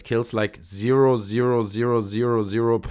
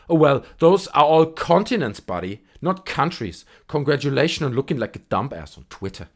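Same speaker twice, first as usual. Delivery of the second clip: smug reply; 3 semitones higher, 4 dB louder than usual. Retold or imitated. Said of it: "And then he replies".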